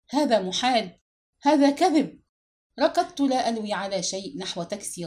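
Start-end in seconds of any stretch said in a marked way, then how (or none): 0.1-2.2 louder and higher, rising into a cry; frantic scream. A narrator's reading. Son reading his mother's death notice, screaming in disbelief. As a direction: scream it without thinking. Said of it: "وصرخت بلا وعي".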